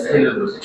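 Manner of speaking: "সেলুলোজ" with a long hissed first s; "সেলুলোজ" opening on a dental s; pronunciation demo. Shown as a demonstration. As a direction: say "সেলুলোজ" as selulose, softly. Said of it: "আমরা উচ্চারণ করি কি?".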